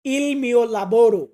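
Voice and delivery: il mio lavoro spelled out very slowly, word by word; slow model pronunciation. Shown as a demonstration. Teacher modelling il mio lavoro very slowly for beginners. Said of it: "এটা বলতে গেলে আমরা বলবো".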